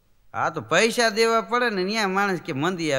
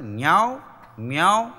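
gentle meow; 3 dB louder than usual. Retold or imitated. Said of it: "સવારમાં જરા સારું લાગે ને".

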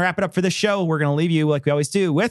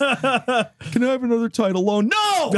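mock customer; 6 semitones higher, slower than usual. Mock customer begging then refusal.

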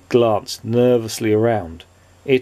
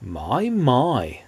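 gentle. A narrator's reading. Tramp to frightened Mister Jelly, gentle. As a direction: say it gently, with a swooping lilt. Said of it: "said the tramp gently".

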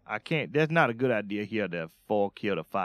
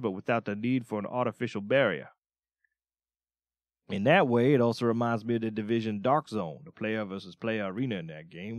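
even read-aloud review voice. Acted. Reading the Hunt review to stream viewers, steady read-aloud.

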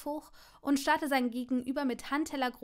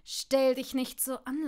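Stell punched with a rising sneer; sneering taunt; 5 dB louder than usual. Acted. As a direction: jab the word Stell loudly. Malfoy taunts Neville.

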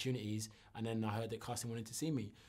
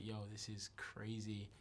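whispered; 8 dB quieter than usual. Retold or imitated. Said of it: "it was like".

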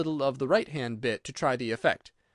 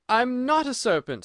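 high, louder indignant protest; 10 semitones higher, 5 dB louder than usual. A narrator's reading. Alice denies the pigeon's charge, high and indignant. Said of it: "said Alice indignantly".

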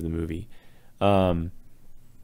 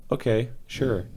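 higher, skeptical okay-sure; mock acceptance, pitched up; sarcastic agreement; 4 semitones higher than usual. Real, not acted. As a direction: feign agreement you clearly don't mean. Sarcastic dismissal of implausible plot.

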